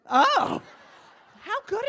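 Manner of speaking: loud happy laughing exclamation; delighted laugh. Real, not acted. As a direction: burst out with delight. Delighted reaction to audience answer.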